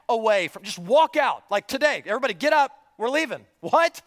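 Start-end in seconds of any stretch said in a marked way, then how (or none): 1.5-3.4 rally the whole crowd to get up and go; excited leader call. Pretend. Moses leads people out, voiced. 3.6-4.0 a sharp, much higher, louder what; startled what. Pretend. Mock objection, sharp high.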